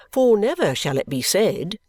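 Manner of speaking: pompous, high emphasis; emphatic. Acted. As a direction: declare it as a solemn vow. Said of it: "Mister Guppy adds with emphasis".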